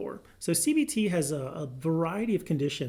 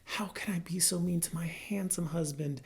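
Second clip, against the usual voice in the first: mock remorseful wife; 5 dB quieter than usual. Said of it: "They probably switch to".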